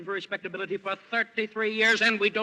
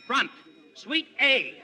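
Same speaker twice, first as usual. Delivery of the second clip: loud call across the desk; 6 semitones higher, 3 dB louder, much slower than usual. Acted. Clerk calling out the room to the front desk. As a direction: summon the bellboy with a louder call.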